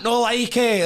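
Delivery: very high, loud, thrilled echo; pure G'd up. Retold or imitated. Starstruck contestant answering the host's catchphrase, thrilled high yell. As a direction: yell the catchphrase back, overexcited. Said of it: "I was pure G'd up".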